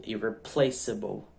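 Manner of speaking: "irreplaceable" slowly, stressed on "pla"; early English stress. Shown as a demonstration. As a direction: punch "pla" in "irreplaceable", weaker ending. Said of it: "ela vem antes".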